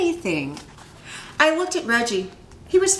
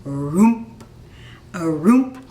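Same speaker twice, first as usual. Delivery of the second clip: a louder, lumbering "roomp, roomp"; creaky ghost footsteps; 2 semitones lower, 4 dB louder, slower than usual. Acted. The speaker imitates the ghost's creaky footsteps, louder and clunky. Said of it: "like that".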